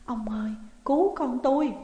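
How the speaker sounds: breathless pleading whisper; desperate whisper. A narrator's reading. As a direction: beg for help with no voice left. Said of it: "bà lại hét lên". (bà mẹ thì thào van xin ông lão cứu con)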